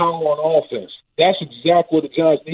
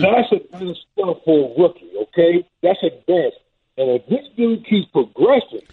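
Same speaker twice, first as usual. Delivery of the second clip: echoing tunnel. Real, not acted. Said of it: "You sound like you're in the tunnel".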